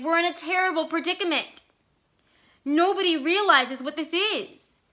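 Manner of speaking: high, strained voice near breaking; a desperate son, voice breaking; voice cracking. A narrator's reading. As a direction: let the voice crack with panic. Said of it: "And his voice cracked".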